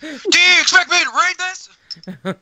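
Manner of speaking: slow, high, strained wrestler voice; hammed-up indignation at a script; mock promo bellow, drawn out; Sid Vicious. Acts wrestler refusing a script.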